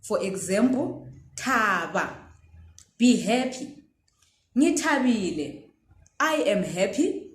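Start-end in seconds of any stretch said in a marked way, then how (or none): 1.3-2.1 "thaba" with a breathy aspirated th; teacher shows the aspirated sound. Shown as a demonstration. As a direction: puff air on the th of "thaba". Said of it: "we are now saying ta".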